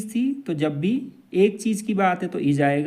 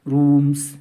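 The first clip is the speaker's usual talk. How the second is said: very slow, each word stretched; slow dictation; 3 semitones lower, much slower than usual. Shown as a demonstration. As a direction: read it out slowly for the class to repeat. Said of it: "तो".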